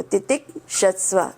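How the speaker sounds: "तितिक्षस्व" split after titik, then shasva; a small break inside "तितिक्षस्व": titik, shasva; अलग करके. Shown as a demonstration. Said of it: "ऐसे". ("तितिक्षस्व" को तितिक् और षस्व में तोड़कर)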